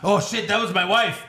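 hammed-up laughing prince; mock prince voice. Playing Saudi prince, mocking.

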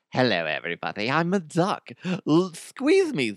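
high, squeaky toy duck with a cowboy hat; cartoon duck voice. The rubber duck greeting the listeners, squeaky cartoon duck. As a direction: chirp it out like a goofy rubber duck. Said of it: "what does this duck sound like".

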